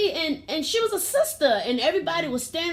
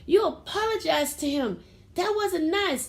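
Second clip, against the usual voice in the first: mother scolding her son at the park, stern; 7 semitones higher than usual. Retold or imitated. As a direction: scold the child firmly. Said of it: "And I said".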